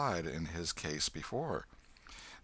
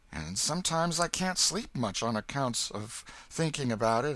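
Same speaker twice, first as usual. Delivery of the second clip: put-on higher, excited boy's voice; a breathless ragged country boy; Huck the boy; 6 semitones higher than usual. A narrator's reading. Huck telling the old man his fright, higher boyish voice.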